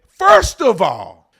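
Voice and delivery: slow, drawn-out mock pundit opener; lightly ape a TV host's grand start. Mocking the TV pundit he's ranting about, slow and drawn out.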